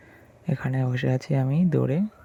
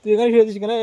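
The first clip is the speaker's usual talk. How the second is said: calling out; 8 semitones higher, 10 dB louder, much faster than usual. Real, not acted. Calling out to a resting dog.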